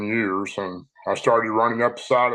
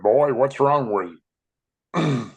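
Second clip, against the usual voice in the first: slow, higher, lightly voiced old grandfather; a hint of a concerned granddad, drawn out slowly; grandfather's question; 4 semitones higher, 3 dB louder, much slower than usual. Grandfather asking the breathless boy, slow and higher. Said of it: "he said".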